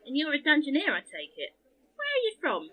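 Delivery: chirpy jester, lightly voiced; cheery court fool voice. Jester Jane greets the dungeoneer.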